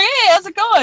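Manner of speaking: high, bright come-on hello; teasing hi; flirty greeting. Retold or imitated. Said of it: "I'm like".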